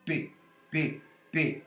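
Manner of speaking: repeated voiceless p, p, p; voiceless p sounds. Shown as a demonstration. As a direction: demonstrate the voiceless p with no voicing. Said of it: "Se não funcionar". (demonstração do p surdo)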